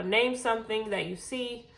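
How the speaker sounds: winded, catching her breath. Real, not acted. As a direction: talk while still breathless. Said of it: "'cause I am out of breath".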